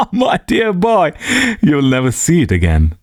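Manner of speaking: lightly voiced amused old friend; amused Trevor voice. Trevor laughing at Hughie.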